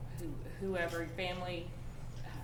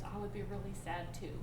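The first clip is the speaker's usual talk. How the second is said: soft empathy; 2 semitones lower, 7 dB quieter than usual. Retold or imitated. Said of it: "She goes".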